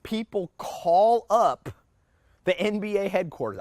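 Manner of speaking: a touch of the NBA secretary. Retold or imitated. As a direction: lightly play the secretary telling it. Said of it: "And she's like".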